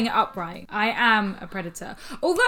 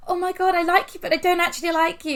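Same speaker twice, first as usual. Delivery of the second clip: higher, fake-sweet gushing; mock gushing; 8 semitones higher, 3 dB louder than usual. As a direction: play a fake admirer, all breathless sweetness. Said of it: "It's almost like".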